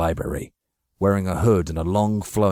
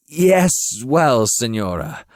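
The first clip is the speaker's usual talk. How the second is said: high, loud, anxious thanks; nervous flattery; 5 semitones higher, 5 dB louder, slower than usual. Acted. Cornered Machiavelli thanking Signora Donati, anxious and grovelling. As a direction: grovel out of fear.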